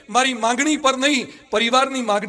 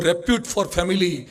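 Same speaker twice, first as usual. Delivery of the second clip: repute for family, each word drawn out slow with repute stressed and falling; spelling out a motto for listeners; slow slogan; 5 semitones lower, much slower than usual. Shown as a demonstration. Slogan stated to the congregation.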